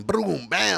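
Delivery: punchy spoken sound effects; imitated boom and bam. Imitating lights and arrival.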